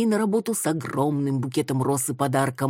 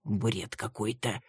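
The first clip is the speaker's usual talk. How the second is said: slow, quiet, let-down drawl; disappointed drawl; 4 semitones lower, 7 dB quieter, slower than usual. A narrator's reading. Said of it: "разочарованно протянул Руслан".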